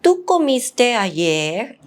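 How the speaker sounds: ¿Tú comiste ayer? slowly, with a rise at ayer; slow demo of the question rise on ayer; teacher's rising question; rising question tune. Shown as a demonstration. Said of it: "we use the intonation at the end".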